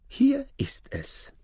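hushed whisper; soft conspiratorial whisper. A narrator's reading. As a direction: breathe it out secretly. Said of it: "sagte er".

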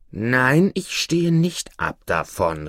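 understated indignant refusal; mildly indignant judge. Acted. Judge refusing the devil's warning, mild indignation. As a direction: refuse with a touch of outrage. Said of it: "rief der Richter empört".

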